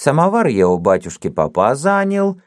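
put-on businesslike old man. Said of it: "деловито объяснил сторож".

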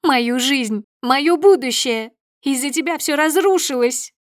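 high, loud, building rage; unhinged screaming fury; hysterical yelling. A narrator's reading. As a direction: wail it out, losing control. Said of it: "продолжает она кричать".

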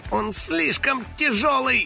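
high, slow grumble; grumbling. Acted. Finik pushing the fridge, slow high grumble. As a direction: complain under the strain. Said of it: "проворчал Финик".

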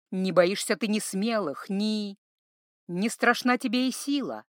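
recited like a sad ballad, slowing at the end; melancholy poem reading; mournful verse. A narrator's reading. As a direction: let the poem's gloom carry it. Minstrel's sad song recited.

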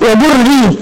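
ordinary talk, nothing marked

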